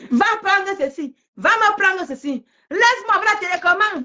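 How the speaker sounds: mocking imitation. Mimics rival bossing her child.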